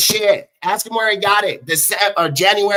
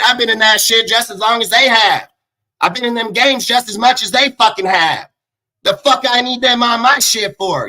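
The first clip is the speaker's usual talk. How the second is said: raised, forceful angry voice; indignant rant; 4 semitones higher, 3 dB louder than usual. Real, not acted. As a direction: argue back hotly, pitch pushed up. Indignant rant about his experience.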